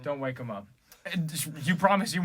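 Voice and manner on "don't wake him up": whispering over a crib. Pretend. Quiet over a sleeping singer.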